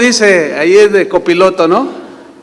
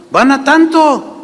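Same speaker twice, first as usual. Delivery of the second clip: put-on American accent Spanish; 8 semitones higher than usual. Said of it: "era americano y nos habló en español".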